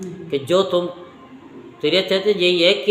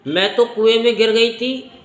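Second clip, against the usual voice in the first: retold plea; 3 semitones higher than usual. Woman stopping villagers from beating the man who saved her, retold plea. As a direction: play the woman hurriedly begging them to stop, voice lifted.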